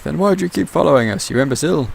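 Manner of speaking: high, loud defiant yell; yelled back. Acted. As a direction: hurl it back at the pirate across the deck. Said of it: "Captain Allegra yelled back".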